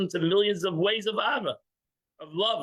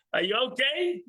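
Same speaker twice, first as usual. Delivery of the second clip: higher, sugary mock concern with laughs; fake concern, laughing; 5 semitones higher than usual. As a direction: play the lender sweetly checking on his debtor. Fake caring lender.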